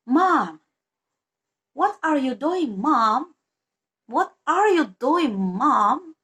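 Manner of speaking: English accent demo. Shown as a demonstration. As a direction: ask mom slowly in a careful English accent. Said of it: "for example, this is". (panggil ibu pelan dengan aksen Inggris)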